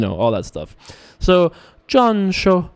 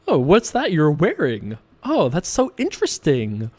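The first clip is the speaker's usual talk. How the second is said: affected small talk. Pretend. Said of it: "I don't actually talk like that".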